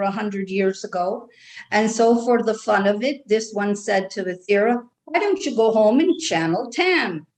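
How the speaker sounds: light Irish brogue held throughout; Irish accent. Acted. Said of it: "I love your accent".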